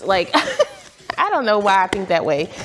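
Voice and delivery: laughing at herself. Real, not acted. Vlogger laughs at her own bed bug worry. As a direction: giggle through it.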